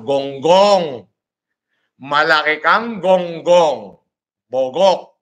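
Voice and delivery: loud, slow, drawn-out yell of insults; insulting yell. Real, not acted. Yelling insults at people who doubt he's loved, loud and slow. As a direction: shout the insults down at them.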